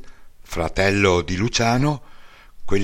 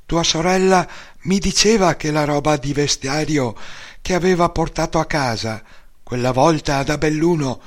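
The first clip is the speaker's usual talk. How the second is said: mother's voice; 6 semitones higher than usual. Retold or imitated. Mother's long speech to son.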